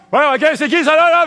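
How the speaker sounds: high, loud shouted greeting; driver's yell. Retold or imitated. Imitating the shouting van driver, high and loud. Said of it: "puis il crie".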